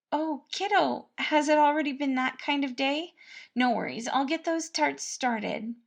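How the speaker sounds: a kindly cook fussing over the prince; cheerful cook Patton. A narrator's reading. Narrator voices Patton.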